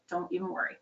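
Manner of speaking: "Don't even worry" said softly and gently, almost hushed; soft reassurance. Acted. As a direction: hush her worries, gently. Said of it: "a verbal hug".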